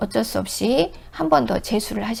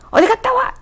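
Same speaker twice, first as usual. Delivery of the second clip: much higher and louder, a demanding shout; nagging wife yell; 14 semitones higher, 5 dB louder than usual. Retold or imitated. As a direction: bark at a husband who came home late. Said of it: "이러지 말고".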